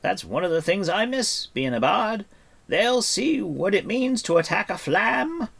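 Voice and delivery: high, loud, rousing bard; excited. Acted. Bard boasting before the horsemen attack, excited. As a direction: build to a ringing battle boast. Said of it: "His face shone with excitement".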